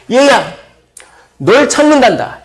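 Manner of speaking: high, loud and bright-voiced hail; calling out. Messenger tells young David he is wanted, high loud call. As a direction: shout the good news to the boy.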